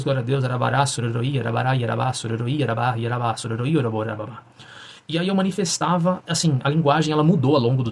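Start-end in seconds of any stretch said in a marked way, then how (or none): 0.0-4.4 speaking in tongues. Shown as a demonstration. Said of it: "ela falava várias sílabas desconexas".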